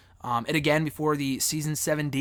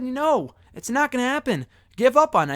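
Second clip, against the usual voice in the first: mocking doubters; 8 semitones higher than usual. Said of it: "They said".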